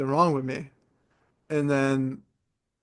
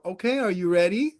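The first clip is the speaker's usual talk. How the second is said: slightly raised, patronizing coaxing; mild kiddie-talk voice; 4 semitones higher than usual. Retold or imitated. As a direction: lightly imitate staff addressing a small child. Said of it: "talking to me like they talk to a kid".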